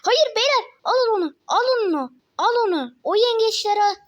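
high, loud urgent commands; frantic gamer barking orders; shouting at teammates. Real, not acted. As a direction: yell orders at your team. Calling teammates mid-fight.

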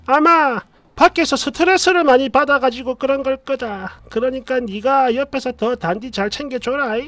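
mother-in-law on the phone dismissing her son's temper; dismissive mother-in-law. Retold or imitated. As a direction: shrug off the worry like a doting mother-in-law. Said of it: "이러며 그냥 대수롭지 않게".

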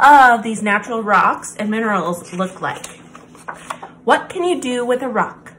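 gentle, expressive picture-book reading; reading to children. Acted. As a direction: read it like a bedtime story for kids. Reads picture book aloud.

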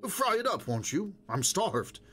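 bright, high fake cheer; forced cheer to his wife; artificially hearty. A narrator's reading. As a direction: play it jolly, covering up. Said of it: "in an artificially hearty tone".

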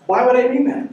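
hammed-up incredulous father; incredulous dad. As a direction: stretch it out in mock outrage. Father repeats retort.

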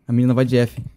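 joking mock-mournful take on the line; mock solemn voice. Paying respects to the girl, mock-solemn. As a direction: say it like a jokey funeral announcement.

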